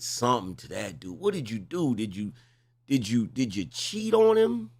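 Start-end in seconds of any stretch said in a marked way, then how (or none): 2.9-4.7 incredulous question. Real, not acted. Host interrogating caller.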